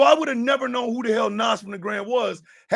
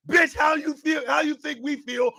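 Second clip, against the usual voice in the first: angry retort; 5 semitones higher than usual. Real, not acted. Ranting back at him.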